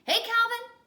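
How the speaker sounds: loud, high friendly shout back; cheery call. Acted. Yard teacher greeting Calvin, loud cheery call. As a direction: greet him from across the court.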